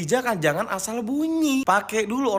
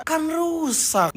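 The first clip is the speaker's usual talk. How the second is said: exasperated verdict; 6 semitones higher, much slower than usual. Real, not acted. Sarcastic verdict on the rule.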